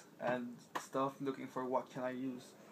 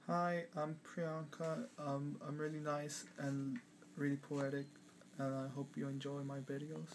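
put-on mild British accent, soft-spoken and sweet; lightly put-on British accent, poetic and nice; 5 dB quieter than usual. Priyanka introducing herself to viewers, British accent. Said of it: "weird to speak with a British accent".

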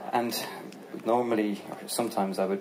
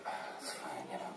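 proud brush-off; 9 semitones lower, 16 dB quieter than usual. Retold or imitated. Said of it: "And she was like".

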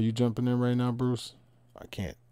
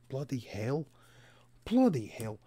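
exclaiming in a mock British accent; lightly hammed British accent, second go firmer; put-on British-style accent; 2 semitones higher than usual. Streamer can't shake it, exclaims in mock British accent. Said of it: "I can't even shake off the accent".

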